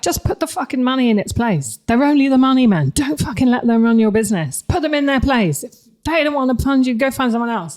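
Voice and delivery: put-on loud, high, weak Irish accent. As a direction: bark it like a crazy Irish bloke. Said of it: "I can't do an Irish accent".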